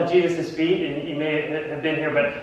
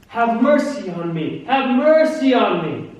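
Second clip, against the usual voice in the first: mock yell, building higher and louder; yelled plea; 4 semitones higher, 4 dB louder than usual. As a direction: cry out for mercy, drawing it out.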